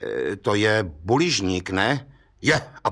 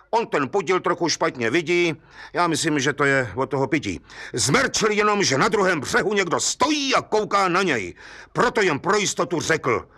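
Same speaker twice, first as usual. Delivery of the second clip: a touch higher, lively village gendarme; lightly voiced Hejda, eager storyteller; 5 semitones higher than usual. Hejda eagerly recounts the case to the judge, lively. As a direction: tell the judge the whole tale with relish.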